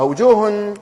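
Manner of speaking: "وجوه" ending in a sounded, held n; audible nun. Shown as a demonstration. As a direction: say "wujuuhun", letting the final n show. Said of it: "إذا ظهرت النون".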